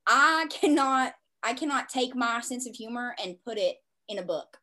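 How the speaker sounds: a Southern twang slips in; Southern accent. Real, not acted. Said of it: "I just sounded so Southern right there".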